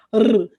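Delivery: R as a loud rolled "rrr"; short buzzing R, not its name; weak R sound. Shown as a demonstration. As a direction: trill R firmly on the tongue tip. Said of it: "se tiver um R só".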